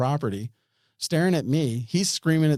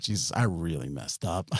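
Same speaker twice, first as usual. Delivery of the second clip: low, softer mock prayer; silent prayer retold; 7 semitones lower, 5 dB quieter than usual. Praying in her mind while surrounded, low hushed plea. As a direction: say it under the voice, as if inwardly. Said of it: "I started praying".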